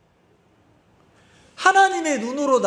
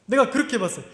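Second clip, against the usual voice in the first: ordinary delivery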